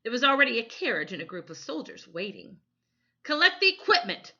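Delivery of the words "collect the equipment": loud, high, fast barked command; barked order. A narrator's reading. Photographer barking orders at the boys, loud and high. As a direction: bark it at the boys. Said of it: "the photographer barked".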